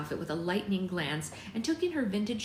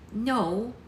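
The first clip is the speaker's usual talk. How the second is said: louder, higher, firm denial; forceful; 5 semitones higher, 5 dB louder than usual. A narrator's reading. Poppy correcting her father, forceful. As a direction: push the "no" out firmly. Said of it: "Poppy said forcefully".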